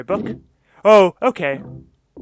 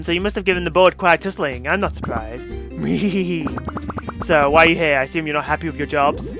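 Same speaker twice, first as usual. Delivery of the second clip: smug corporate villainess. Acted. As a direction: purr it out like a smug CEO. Voices the CEO villain.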